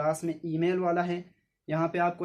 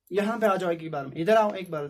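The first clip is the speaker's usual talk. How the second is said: louder mock order from mother; mother's order; 4 dB louder than usual. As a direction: call the child over firmly. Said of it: "कहा इसे माँ ने". (माँ का ऊँची आवाज़ में हुक्म)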